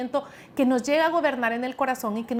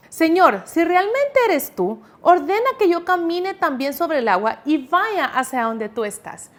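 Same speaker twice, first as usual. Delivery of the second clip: higher, emphatic acted plea to the Lord; forceful reply; 4 semitones higher than usual. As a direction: speak up boldly as an eager disciple. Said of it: "responde con mucha fuerza". (respuesta enérgica y actuada)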